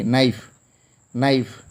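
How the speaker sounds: knife said as naif with no k sound; model word knife. Shown as a demonstration. Teacher models knife for the class, silent K. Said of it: "K is silent here".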